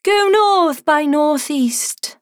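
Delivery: high, very slow and airy guiding voice; a gentle star pointing the way, drawn out; sparkly tinkling star voice. Acted. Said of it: "said the first star".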